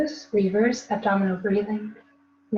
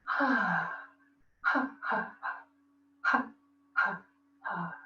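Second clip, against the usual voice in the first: demo laugh; 3 semitones lower, 4 dB quieter, slower than usual. Shown as a demonstration. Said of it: "Exhale like you're laughing".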